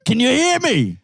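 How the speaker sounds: calling out to a deaf grandma on the line; call center agent. Pretend. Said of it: "help little old ladies with their hearing aids".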